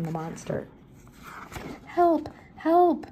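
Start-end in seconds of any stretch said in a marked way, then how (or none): 1.8-3.1 much higher, loud yell; yelling for help. Acted. Shaggy thrashing in the lagoon, high yell. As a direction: shout for help from the water. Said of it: "yelled Shaggy".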